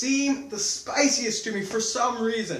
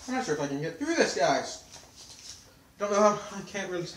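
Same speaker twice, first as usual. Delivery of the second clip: mouth burning from spicy food; faster than usual. Real, not acted. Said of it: "My tongue is on fire".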